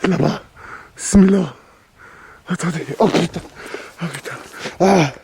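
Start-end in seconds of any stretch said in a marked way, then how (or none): 3.0-5.1 scared horror game streamer. Real, not acted. Ghost hunt, sudden fright.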